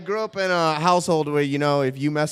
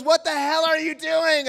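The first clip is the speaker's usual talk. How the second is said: high, drawn-out scolding; mock outrage; 11 semitones higher than usual. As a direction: imitate an appalled woman scolding. Woman scolds him, acted.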